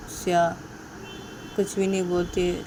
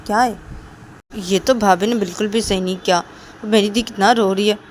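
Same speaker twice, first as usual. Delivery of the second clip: indignant complaint; 3 semitones higher than usual. Acted. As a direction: complain hotly on his sister's behalf. Rahul upset sister was slapped.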